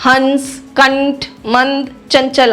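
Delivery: slow हंस, कंठ, मंद, चंचल with nasal anusvara; word-by-word demo of the nasal in हंस, कंठ, मंद, चंचल. Shown as a demonstration. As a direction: let air out through the nose on each anusvara. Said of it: "हवा नाक से टकराकर बाहर निकलती है".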